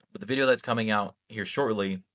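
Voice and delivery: speaking through a burp; words caught by a rising burp; holding back a burp. Real, not acted. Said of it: "I'm burping".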